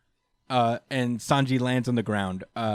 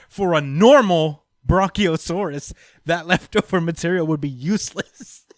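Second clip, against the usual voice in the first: Queen; 3 semitones higher, 5 dB louder than usual. Retold or imitated. Host retelling Queen's monologue about his body, hammed-up villain explaining. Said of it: "he's just like".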